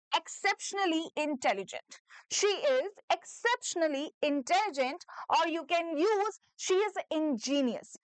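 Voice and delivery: slow, careful word by word; slow dictation. Shown as a demonstration. A teacher dictating slowly for students to repeat. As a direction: spell it out in sound. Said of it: "उसको repeat करिए".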